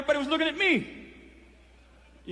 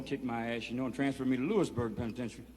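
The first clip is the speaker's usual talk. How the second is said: usual speaking voice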